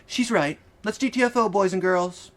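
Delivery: put-on brash young woman. Laura's brash exit line.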